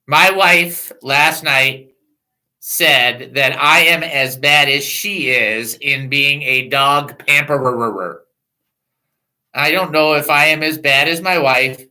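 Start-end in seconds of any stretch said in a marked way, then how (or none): 0.1-8.2 deliberate slow telling. Real, not acted. Slow dramatic accusation set-up.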